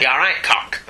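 imitating granddad's thick St Helens accent; hard St Helens accent. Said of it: "that hard St Helens accent".

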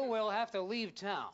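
low, slow mock resolve; hint of a mother's grave announcement; mock-solemn mother. Movie mother announces her plan to the family, mock-solemn.

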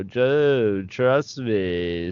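lightly voiced eerie droid, gliding vowels; a hint of sinister robot coaxing; creepy robot voice. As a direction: imitate an oddly creepy medical droid. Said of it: "the robot voice, you know".

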